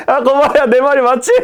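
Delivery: high, hammed-up crazed cackling; acted manic laughter. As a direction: laugh like mad through the words. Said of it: "막 미친 듯이 웃으면서".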